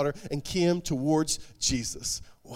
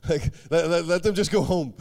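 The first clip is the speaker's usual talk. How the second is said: mocking disciples; 4 dB louder than usual.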